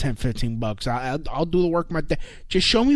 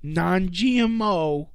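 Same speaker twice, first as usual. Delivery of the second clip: entitled white customer voice; 2 semitones higher than usual. Pretend. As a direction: ask with smug mock politeness. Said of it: "with all the white entitlement".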